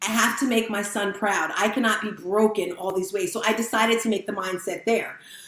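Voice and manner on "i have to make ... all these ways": ordinary delivery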